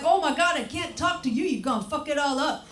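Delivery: high, half-laughing mock panic. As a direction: push them away in hammed-up alarm. Panicked reply to friends.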